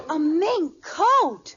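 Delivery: slow, drawn-out astonishment; astonished. Acted. Wife marveling at the mink coat. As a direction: savor the words in disbelief.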